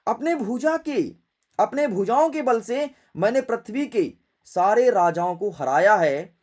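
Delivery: loud, forceful boast; Parashuram. Acted. Parashuram boasts of defeating every king, loud and forceful. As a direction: declaim it with punched stresses. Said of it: "Parshuram जी अपने फरसे को देख करके बोले".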